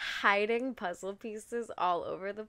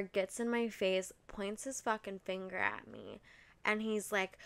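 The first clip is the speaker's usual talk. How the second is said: usual speaking voice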